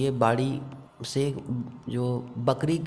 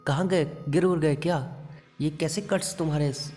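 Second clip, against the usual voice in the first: higher, shocked cry of a worried aunt; alarmed aunt; 5 semitones higher than usual. Retold or imitated. Aunt seeing blade cuts on her nephew, alarmed and high. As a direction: gasp it out as a startled aunt.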